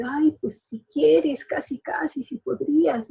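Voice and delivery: hesitant pleading, fading away; slow, shy half-offer that trails off softly; passive meek tone. Retold or imitated.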